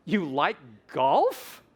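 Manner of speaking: slow "You like golf?" swooping up on "golf"; question rise. Shown as a demonstration. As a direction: stretch it and send "golf" sharply upward.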